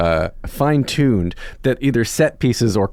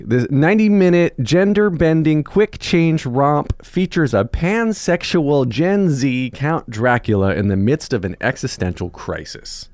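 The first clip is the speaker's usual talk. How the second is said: promotional read; 4 semitones higher than usual. Real, not acted. Host reading the show's blurb to the guest, promotional read. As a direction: draw out each billed selling point. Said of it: "But I wanna read".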